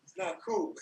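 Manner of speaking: retold indignant scold; angry scolding. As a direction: scold him like a kid. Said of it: "Just anger".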